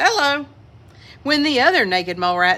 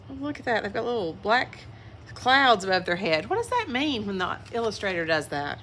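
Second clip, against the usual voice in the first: hushed, chatty aside about the picture; soft aside; 7 dB quieter, faster than usual. Real, not acted. Reader pointing out the picture to children, hushed. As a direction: lean in and point it out. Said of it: "aside to listeners".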